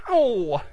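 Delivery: drawn-out mild "ow"; sound-effect yelp. Retold or imitated. Horse hitting the prickly pear, sound-effect yelp. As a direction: imitate a horse landing in cactus. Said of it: "That was just sound effects".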